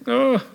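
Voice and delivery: high, loud "oh"; mock alarmed "oh". Preacher mimicking a listener facing the winding staircase, high dismayed "oh". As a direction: let out a high, put-on "oh".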